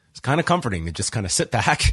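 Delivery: normal talking voice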